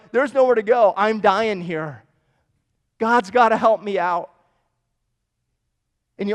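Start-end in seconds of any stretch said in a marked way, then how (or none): 0.1-4.3 loud, desperate cry for help; desperate plea. Pretend. A person at rock bottom begging God for help, loud desperate plea. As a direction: plead like there's nowhere left to go.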